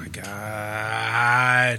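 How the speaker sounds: low, very slow groan of disbelief; drawn-out exasperation. Real, not acted. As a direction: drag the words out, low and weary. Exasperated reaction to Vince.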